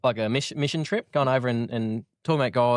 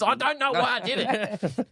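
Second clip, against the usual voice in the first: put-on high, slow laughing little kid voice; sheepish kid; 11 semitones higher, slower than usual. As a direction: whine it like a caught kid, giggling. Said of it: "I was".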